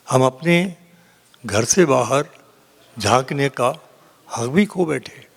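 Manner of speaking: measured mushaira recital with long pauses; poetry recitation. Acted. Poet reciting a couplet to a mushaira audience, declaimed. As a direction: recite the verse phrase by phrase.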